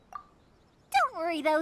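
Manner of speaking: reassuring. Acted. Reassuring weary travelers.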